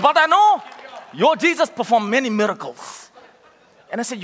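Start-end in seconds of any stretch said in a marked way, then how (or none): 0.0-3.1 emphatic retold quote. Preacher repeating the taxi driver's words, emphatic retold quote. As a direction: retell it with more force, punching the opening.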